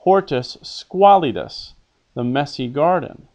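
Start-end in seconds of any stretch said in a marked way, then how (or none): 0.0-1.7 "hortus squalidus" lifted higher and slowed down; quoted Latin phrase, pitched up; raised, slow quoted Latin. Shown as a demonstration. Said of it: "Flavius describes the garden as messy".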